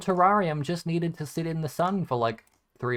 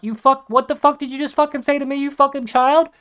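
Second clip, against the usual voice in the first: hammed-up shocked yell, higher and louder; mock outrage; 13 semitones higher, 10 dB louder than usual. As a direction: play the outraged adult, mock furious. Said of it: "and I'm like".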